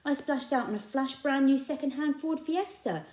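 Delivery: high, proud bragging voice; boastful shopkeeper. A narrator's reading. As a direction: puff up about riches. Raj boasting about riches.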